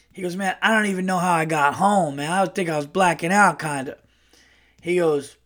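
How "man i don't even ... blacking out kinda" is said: higher-pitched brash uncle storyteller; lightly voiced brash uncle; Earl. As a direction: imitate a brash guy starting a drinking yarn. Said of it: "like, a very brash uncle".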